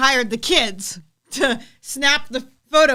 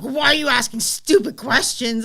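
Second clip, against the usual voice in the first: mock grouchy retort. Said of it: "yelling at you".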